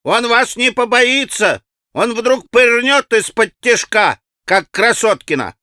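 put-on high, slow, carrying boyish cry; warning shout. A narrator's reading. Boys warning Alyosha as he walks off, shouting. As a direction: call the warning after him, stretched out. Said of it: "кричали ему вслед предупредительно".

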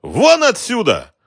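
very high, loud, slow yell; furious shout. Acted. Shopkeeper yells at the racketeer, furious. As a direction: drive him out of the shop.

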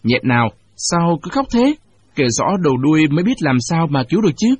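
a hint of impatience; impatient. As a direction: push her to get to the point. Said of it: "Tôi sốt ruột".

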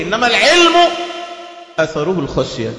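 shouted sermon climax; preaching shout. Real, not acted. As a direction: call it out to the whole congregation. Preacher's closing exhortation.

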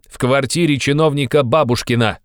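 high, loud insistent invitation; loud harangue. Acted. Razumikhin loudly insisting Raskolnikov come to his party.

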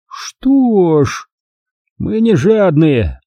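slow, high drawl. A narrator's reading. Miss Rushby drawls to the kidnappers, slow. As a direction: stretch the words out. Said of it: "и протянула".

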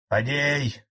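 резкий окрик через зал; одёрни его с места; крик. A narrator's reading. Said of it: "буквально закричал со своего места Фролов". (громкий окрик)

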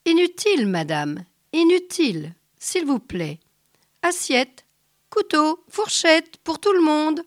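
loud booming giant, broken French. A narrator's reading. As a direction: wave off the menus like a big giant. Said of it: "le géant lui dit". (géant lent et tonitruant)

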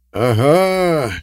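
loud, high gleeful shout; cheerful yell. A narrator's reading. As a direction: crow with delight. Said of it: "весело заорал он".

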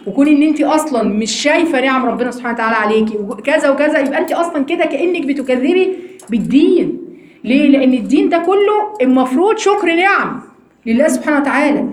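ordinary talk

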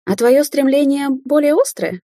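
soft giggle. A narrator's reading. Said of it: "тихонько хихикнула девушка".

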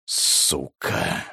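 «Сука!» breathed out in a low whisper; whispered curse. Acted. Xiao cornered by the bomb threat, whispered curse. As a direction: hiss «Сука!» under the breath, barely audible. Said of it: "прошептал Сяо".

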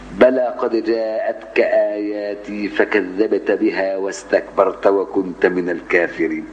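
very slow, low chanted recitation. Shown as a demonstration. Teacher slowly reciting the Zumar verse to students. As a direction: let each word of the verse stretch out.

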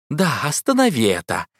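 насмешливо передразнить «останови это»; «останови» протянуть издевательски, с падением; язвительное эхо. A narrator's reading. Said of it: "язвительным эхом бросил Мейтленд". (Мейтленд передразнивает героя: язвительная насмешка)

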